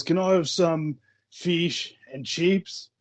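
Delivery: slow, deliberate "fish and chips"; careful new pronunciation. Retold or imitated. Kiwi back in the shop, ordering carefully. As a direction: order it slowly and very correctly. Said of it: "goes back into the shop".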